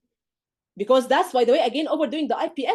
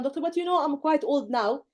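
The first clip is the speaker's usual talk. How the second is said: patient voice, slow; 3 semitones higher than usual. Retold or imitated. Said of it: "she'll tell you in the exam".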